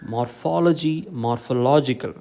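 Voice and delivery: mor-PHOL-ogy, then morpho-LO-gical for morphology, morphological; shifting stress. Shown as a demonstration. Teacher recapping word pairs, stress shifting in morphology, morphological. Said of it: "The stress falls on".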